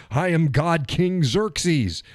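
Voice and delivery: slow, grand self-proclaimed god king; booming god king. Retold or imitated. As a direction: intone it slowly like a vain emperor. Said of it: "That's why I go".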